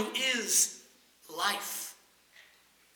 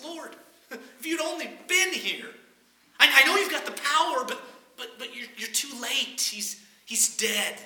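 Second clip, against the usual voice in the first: sad; 3 semitones higher than usual. Acted. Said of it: "probably more just sadness".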